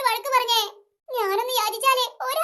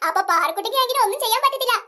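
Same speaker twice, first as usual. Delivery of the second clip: smug laughing; 4 semitones lower than usual. Acted. Rivals smugly mocking Parukutty.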